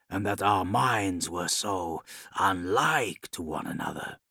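measured, weighty warlord monologue; lightly voiced Khan, pondering his father's choices; brooding Khan. The Khan confides in Ilya about his father, brooding and deliberate.

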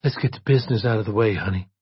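lightly coy businesslike come-on; a touch of fake sweetness; insincere coyness. A narrator's reading. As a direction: coyly hurry the customer along, then lift the pitch. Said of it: "smiled with insincere coyness at Brennan".

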